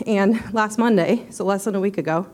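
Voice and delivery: short of breath, nervous pauses; breathless after running. Real, not acted. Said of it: "I'm out of breath".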